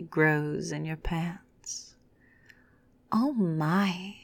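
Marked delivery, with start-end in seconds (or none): 3.1-4.1 mocking. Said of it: "Brittany mockingly says".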